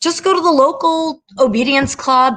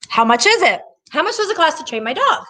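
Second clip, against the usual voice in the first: lightly mocking caller, pitched up at the end; mimicked customer question; 6 semitones higher than usual. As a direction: imitate a naive customer asking the price, higher voice. Acts out callers' first question.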